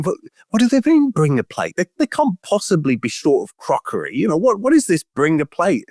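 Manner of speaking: high, puzzled newcomer voice; mock bewilderment. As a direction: play the confused new arrival. Newcomers baffled by "bring a plate.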